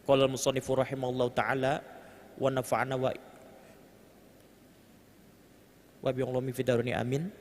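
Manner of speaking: quick, even formula recital; Arabic opening recitation. Real, not acted. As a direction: recite the opening blessing briskly on a level tone.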